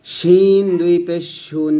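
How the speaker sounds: "শিন" and "শুন" with mid-tongue at the palate; hushed sh in a long "শিন", then "শুন". Shown as a demonstration. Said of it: "জিহ্বার মধ্যখানটা উপর তালুর সঙ্গে".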